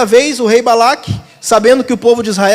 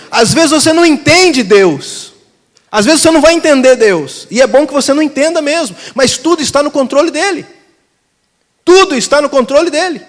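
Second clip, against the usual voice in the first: raised, forceful preacher delivery; emphatic preaching; 4 semitones higher than usual. Real, not acted. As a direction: drive each line home to the congregation. Preacher drives home the point.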